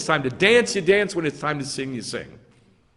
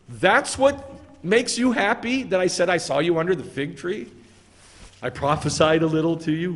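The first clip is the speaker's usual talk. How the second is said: mocking. Preacher voicing Yeshua needling Nathanael, mocking. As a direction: tease him for being so easily pleased. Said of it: "He's mocking him".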